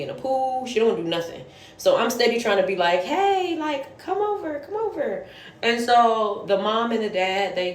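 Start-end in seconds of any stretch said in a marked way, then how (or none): 3.0-5.2 high-pitched, gentle beckoning; coaxing a child. Retold or imitated. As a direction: imitate yourself sweetly calling a child over. Coaxing a reluctant child to play.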